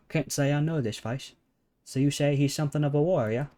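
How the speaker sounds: put-on a wandering amateur British accent; a storyteller drifting between British accents; shifting British accent. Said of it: "I'm transitioning to various accents now".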